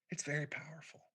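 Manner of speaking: hushed, awed whisper. Retold or imitated. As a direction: breathe it out like a secret. Therapist awed over his aura.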